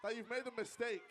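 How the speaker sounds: megalomaniac rant. Acted. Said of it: "You sound like a supervillain".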